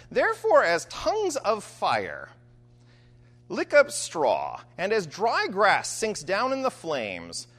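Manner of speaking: measured public reading of Isaiah; scripture reading. Acted. Preacher reading Isaiah to the congregation. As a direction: read the prophecy with weight. Reads Isaiah passage aloud.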